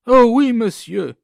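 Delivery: empressée, plus haute et plus forte; un oui franc et enthousiaste; eager reply. A narrator's reading. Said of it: "répondit cette fois sans hésiter". (la jeune femme répond au notaire, vive et plus forte)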